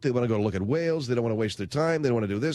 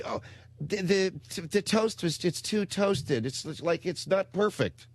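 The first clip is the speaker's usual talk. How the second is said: higher, slow whiny complaint; whiny daughter; 3 semitones higher, slower than usual. Retold or imitated. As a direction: whine that the toast isn't perfect.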